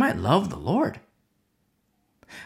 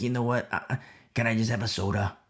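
sheepish mumble; 7 semitones lower, 7 dB quieter, faster than usual. Retold or imitated. Sheepishly asking for soda.

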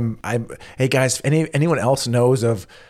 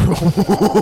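odd gulping laugh; 8 semitones higher, 4 dB louder than usual. Real, not acted. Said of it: "What was that?".

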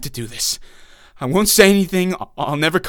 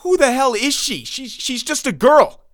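much higher, louder panicked protest; desperate outburst; 10 semitones higher, 4 dB louder than usual. Acted. Captive protests to his attacker in panic. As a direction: cry out in disbelief.

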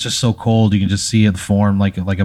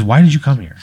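whiny; 5 semitones higher, 3 dB louder than usual. Acted. Hyphen whines to player.

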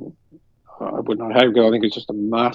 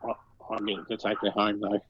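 leaning in, confiding; 10 dB quieter than usual. Retold or imitated. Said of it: "he leaned in and went".

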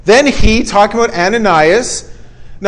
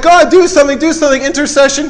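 mock pleading prayer; 5 semitones higher, faster than usual. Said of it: "often we're like".

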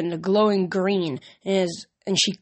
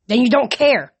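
raised, louder acted outburst; higher-pitched narrated yell; 5 semitones higher, 6 dB louder than usual. A narrator's reading. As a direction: yell it as a hurt accusation. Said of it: "Luke yelled".

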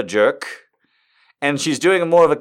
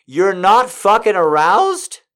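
incredulous, higher, louder and slow; shocked; 5 semitones higher, 4 dB louder, slower than usual. Acted. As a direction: act out her disbelief. Character's shocked line read out.

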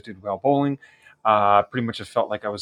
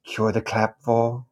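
put-on measured, formal admiral voice with an accent; formal villain checking in politely; Grand Admiral Thrawn. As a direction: play a courteous Star Wars Imperial officer. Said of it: "he was doing a character from Star Wars".

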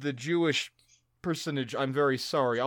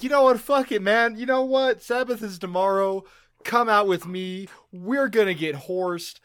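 partying sergeant; 3 semitones higher than usual. Retold or imitated. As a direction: hype up a buddy for a night out. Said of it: "he was just like".

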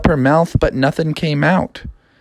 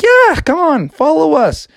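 higher, eager frog voice; Froggy voice; 13 semitones higher, 3 dB louder than usual. Acted. Froggy inviting the princess, higher voice. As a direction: sell the school to her. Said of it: "He's like".

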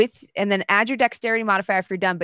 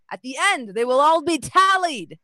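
lightly voiced herald, higher; 4 semitones higher than usual. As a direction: read the prizes out like a herald. Herald listing the prizes.

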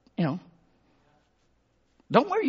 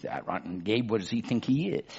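emotional wife; 5 semitones lower, 4 dB quieter than usual. Acted. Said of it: "she's emotional".

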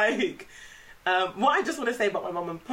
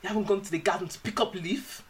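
mum's voice with a laugh breaking through; a hint of an Igbo mum complaining; imitating mum. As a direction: scold like a dramatic mum. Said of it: "She was like".

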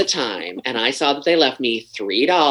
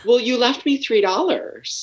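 slow, high, mock-sweet reproach; deliberate passive-aggressive delivery; pointed reproach; 10 semitones higher, slower than usual. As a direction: waiter shaming customers over the tip. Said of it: "I'd be like".

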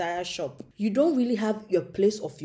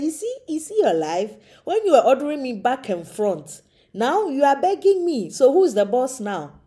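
mocking God; 4 semitones higher, 5 dB louder than usual. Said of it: "he's like".

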